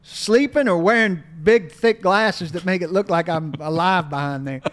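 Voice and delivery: lightly voiced Southern coach, drawled and folksy; Steve Spurrier impression. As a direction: play the old ball coach, a little hammed-up.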